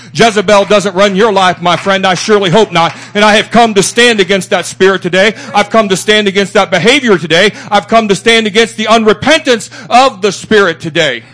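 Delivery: preaching at full force, rising. Real, not acted. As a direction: take your stand against it, swelling.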